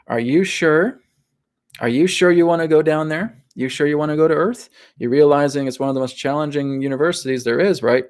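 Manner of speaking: gently imitated sceptical guide, pitched a bit up; doubtful dissuading. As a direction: try to talk them out of it. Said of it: "sometimes try to talk us out of it".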